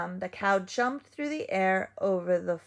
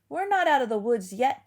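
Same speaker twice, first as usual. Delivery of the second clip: panting; 5 semitones higher, 5 dB louder, faster than usual. A narrator's reading. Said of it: "panted Dog".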